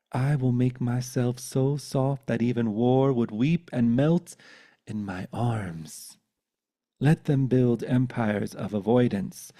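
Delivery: measured poetry reading with deliberate pauses; poem recital. Acted. Poet sharing a poem about leaders, earnest recital. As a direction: recite it earnestly, line by weighted line.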